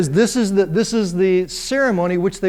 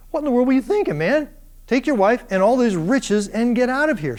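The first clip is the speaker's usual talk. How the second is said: exasperated Pharaoh; 5 semitones higher than usual. Acted. Pharaoh scolding Abraham.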